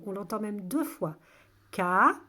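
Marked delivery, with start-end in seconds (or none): 1.7-2.2 syllable by syllable. Shown as a demonstration. Teacher gives children a new word to test, syllable by syllable. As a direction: hold each syllable, long gap between.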